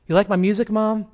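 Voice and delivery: son's voice jumps up in disbelief; surprised son. Retold or imitated. Son surprised by mother's praise.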